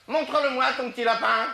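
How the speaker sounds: put-on high, bright-eyed child asking; little girl voice. Little girl asking the old lady, high and curious.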